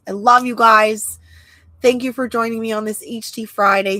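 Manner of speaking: stuffy, nasal voice. Real, not acted. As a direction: sound a bit congested and nasal. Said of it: "excusing my nasal voice".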